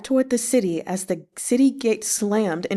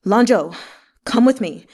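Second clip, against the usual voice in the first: louder ringing call across the distance; 5 dB louder than usual. Acted. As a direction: call out to him, full-voiced. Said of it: "In a deep, ringing voice".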